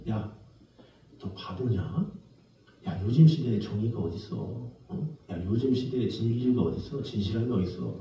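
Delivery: low, hushed voice of a jaded senior; lightly acted, soft, low scolding; imitated insinuating whisper. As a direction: murmur it like a corrupting senior colleague. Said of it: "막 그러면서 속삭이죠".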